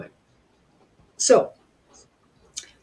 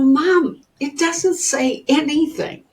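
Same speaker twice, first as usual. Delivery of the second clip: put-on high-pitched, whiny kid protesting to mom; a hint of a frustrated little girl; exasperated child; 8 semitones higher, slower than usual. Child answers mother, exasperated.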